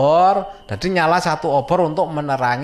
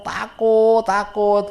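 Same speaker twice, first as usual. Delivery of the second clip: high, drawn-out mock wail; imitated tearful fear; 7 semitones higher, 3 dB louder, much slower than usual. Storyteller imitating Ajis still crying with face covered, high tearful wail. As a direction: mimic a frightened child who keeps crying. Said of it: "Ajis tetap nangis".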